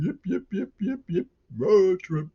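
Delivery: very high yapping party cheer; mock frat yelping. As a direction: yip like an overexcited frat boy.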